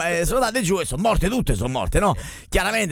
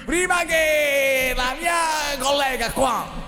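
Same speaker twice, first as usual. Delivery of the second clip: high shouting nun; 12 semitones higher, slower than usual. Acted. Nun answering Saint Peter.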